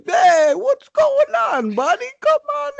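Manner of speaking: high, slow, friendly goofy voice; high, drawn-out buddy greeting; cheerful Volkov. Retold or imitated. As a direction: greet him like a clueless happy host.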